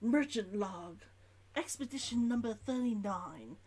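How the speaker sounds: put-on merchant's log in an Old London accent. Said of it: "Old London by the sounds".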